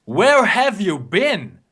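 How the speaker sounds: slow dramatic announcer. Acted. Playful crowd address, slowed.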